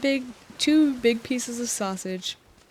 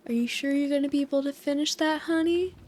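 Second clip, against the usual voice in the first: imitating the waitress; 5 semitones higher than usual. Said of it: "Wait, let me do it in".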